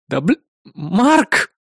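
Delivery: slow, exasperated snort. A narrator's reading. Assistant Eris huffing at Mark, slow and exasperated. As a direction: huff at him. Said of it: "фыркнула Эрис".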